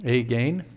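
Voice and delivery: "again" as ay-GAIN, low and soft; mock mispronunciation. Shown as a demonstration. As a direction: repeat "again" with long AY in both syllables. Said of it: "terrible pronunciation".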